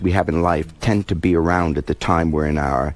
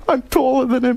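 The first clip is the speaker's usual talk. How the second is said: laughing. Real, not acted. Laughing at own reunion story.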